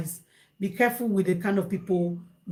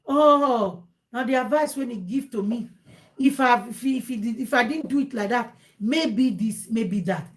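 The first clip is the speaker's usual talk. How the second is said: mildly raised, complaining mock voice; blaming; 3 semitones higher than usual. Advised person blaming the adviser, mock complaint. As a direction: act out someone shifting the blame. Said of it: "blame you like".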